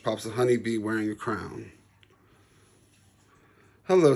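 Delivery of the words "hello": a bright, higher bee greeting; lightly voiced queen bee. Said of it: "says the honeybee".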